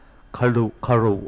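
"ขรุ ขรุ" drawn out very slowly, each syllable apart; slow foreign exclamation. Retold or imitated. Startled brother blurts "ขรุ ขรุ" very slowly. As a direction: stretch "ขรุ ขรุ" slowly like a strange foreign cry. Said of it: "กล่าวเป็นภาษาจันทานไปอย่างนี้ว่า".

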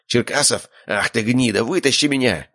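villain yelling upward; angry shout. A narrator's reading. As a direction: curse him while hanging. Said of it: "выкрикнул он".

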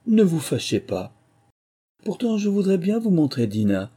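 high-pitched, placating sweetness; coaxing, soothing voice. A narrator's reading. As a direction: coax an offended listener, pitched well up. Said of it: "d'une voix caressante, pour l'apaiser".

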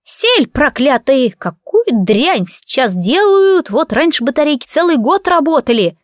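cranky granny railing at dead batteries; grumbling old woman. Acted. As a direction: drag out the old woman's scolding of modern junk.

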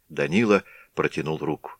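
ordinary delivery, nothing marked

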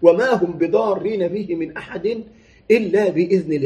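Quran recitation. Shown as a demonstration. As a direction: stretch وما and rise, then fall on إلا. Recites the verse again slowly.

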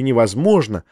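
ordinary delivery, nothing marked

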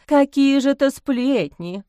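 high, slow, wide-eyed question; priest's wife playfully protesting innocence; mock surprised. A narrator's reading. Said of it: "удивилась попадья".

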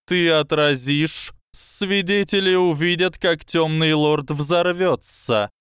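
high, slow lecturing snake voice; slow hypnotic serpent hiss. Acted. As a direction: coil the words around him slowly. Snake finishes plan.

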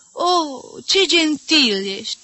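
high, loud burst of delight; enthusiastic delight. A narrator's reading. Mother delighted by the suitor's generosity, high and loud. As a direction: gush with open arms. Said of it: "se lumină la față și deschise brațele cu entuziasm".

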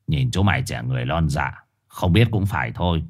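very low, soft gruff voice; condescending old street dog. Acted. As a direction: talk down to the newcomer. Dog patronizes Trùn.

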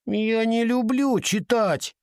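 put-on high, slow whiny child voice; whining. A narrator's reading. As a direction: drag it out in a childish whine. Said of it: "ноющим голосом затянула Уинни".

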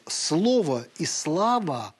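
each word laid out very slowly; slow solemn reading. Acted. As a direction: savour the old phrase, very slowly. Reads Shishkov quote. (очень медленное, торжественное чтение)

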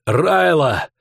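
high pleading shout; dying Willis shouting to his captain; desperate cry. A narrator's reading. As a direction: cry out the promise with the last breath. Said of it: "успел только крикнуть".

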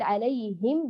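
"عليهم" with audible h and full i; complete kasra. Shown as a demonstration. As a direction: realise the h of "عليهم" clearly. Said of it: "بإتمام الكسر وتحقيق".

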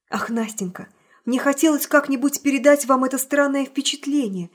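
pleading, hope still hiding underneath; plaintive voice. Acted. Hero pleads with Nastenka in a plaintive voice. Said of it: "начал я жалобным голосом".

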